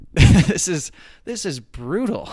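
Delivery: high laughing groan; laughing at how brutal the hip stretch is; laughing disbelief. Retold or imitated. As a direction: laugh through the pain.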